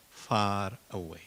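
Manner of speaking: ordinary talk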